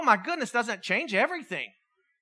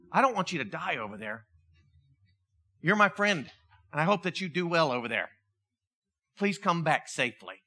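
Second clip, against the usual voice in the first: lower, gentle heartfelt plea; earnest and subdued, dropping low; sincere farewell; 4 semitones lower than usual. Acted. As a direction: soften into a tender goodbye. Farewell to comrade going to war.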